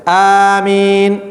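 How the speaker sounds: amen held a little, no melody; just a moderate amen; proper amen. Shown as a demonstration. Teacher showing pupils the correct amen. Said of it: "فقط".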